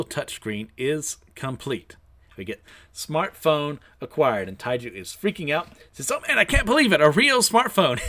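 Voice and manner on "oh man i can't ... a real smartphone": high thrilled outburst; excited. Acted. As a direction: squeal with disbelief and joy. Excited character gets smartphone.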